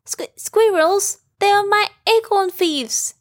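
high, stammering shock; startled, with a stammer; startled gasping. Acted. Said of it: "Piglet gasped".

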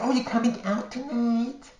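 a light put-on of the chatty friend; friend's voice. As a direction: play the gossipy queen friend calling. Gossipy friend Richie on the phone.

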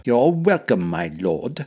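reply with strained courtesy; tight, formal servant's answer; brittle. A narrator's reading. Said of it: "in a brittle tone".

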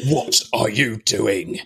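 slowish Brando rebel mumble; cool biker drawl; Marlon Brando. Retold or imitated. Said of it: "Crichton goes full Marlon Brando here".

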